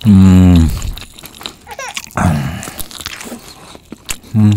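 chewing while humming; eating mid-bite; mouth full of chicken. Real, not acted. Seen 0: Man bites and chews chicken drumstick throughout the labelled words.

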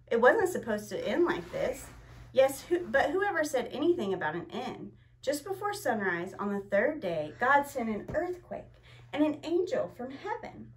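put-on storybook reading for children; story narration. A narrator's reading. Parent reading the Easter story to children, gently. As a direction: read it gently to the kids watching.

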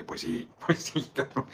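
breathy chuckle through the words, slowed; amused, laughing it out; laughing agreement. Real, not acted. Laughs at viewer's comment.

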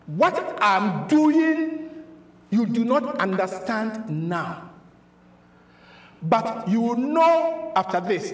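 slow, measured quoted answer; Jesus answering. Acted. Preacher voicing Jesus answering Peter, slow and deliberate. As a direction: draw the words out deliberately. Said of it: "Jesus answered and said to him".

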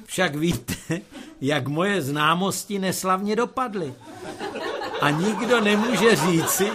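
put-on high, loud, whining young man; whiny son. Son complaining to his mother in a high whine. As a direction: plead like a hopeless bachelor.

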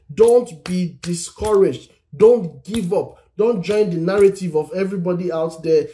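rally a discouraged listener; urgent exhortation. Acted. Pastor urging listeners.

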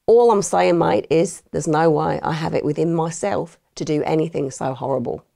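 put-on innocent-sounding Aussie protest in an Australian accent; mock Australian accent. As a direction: insist on your innocence in a light Australian accent. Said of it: "my attempt at an Australian accent".

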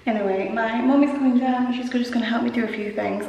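talking in an empty echoing room; echoey room. Real, not acted. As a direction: echo off bare walls. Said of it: "Oh, it's really echoey in here".

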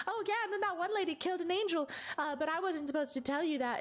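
high, fast, dopey blurting voice; silly Frank. Retold or imitated. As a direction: play a clueless goon spilling a secret. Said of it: "he'll go".

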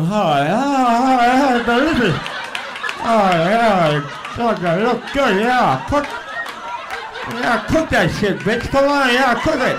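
high, loud, drawn-out moaning delight at TV cooking; mock food-show ecstasy. Comic egging on a TV chef, ecstatic. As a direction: ham up a food porn moan, egging the cook on. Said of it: "I can't watch the Food Network go".

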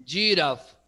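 teacher demonstrating English "Giraffe"; English pronunciation. Shown as a demonstration. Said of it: "la pronunciación es giraffe".

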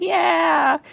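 very high, loud, pleased little voice; a high, loud, tickled mischief-god voice; gleeful god voice. Retold or imitated. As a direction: squeal it like a delighted trickster. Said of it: "and he's like".

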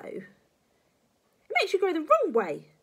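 slow, loud, high granny snap; emphatic scolding old woman; snapping. Acted. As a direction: drag it out crossly and loudly. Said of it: "she snapped".

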